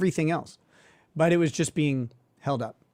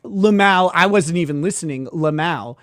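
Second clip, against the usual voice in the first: mock joking lawyer; 2 semitones higher, 5 dB louder than usual. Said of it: "he tries to make this joke".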